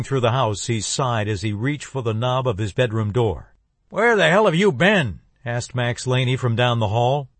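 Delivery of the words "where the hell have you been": loud, higher angry grandfather; angry old man catching his grandson; angry demand. Acted. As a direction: demand an answer, furious. Grandfather confronts sneaking grandson.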